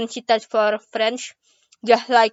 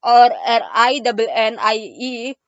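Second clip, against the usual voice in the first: spelled out slowly. Shown as a demonstration. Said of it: "do you want it spelled".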